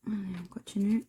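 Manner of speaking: soft whispered aside. Real, not acted. Moving on, whispered to herself. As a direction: breathe it out to yourself.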